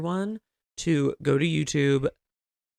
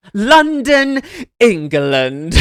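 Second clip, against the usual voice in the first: movie quote; 6 semitones higher, 9 dB louder, much slower than usual. Retold or imitated. Austin Powers reference.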